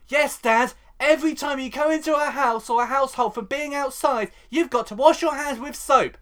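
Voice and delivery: high, loud mock dutiful son; Bobby Bill. Son lectures Dad on hand-washing, hammed-up public-service voice. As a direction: recite it pointedly, pitched well up. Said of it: "it was Bobby Bill who goes".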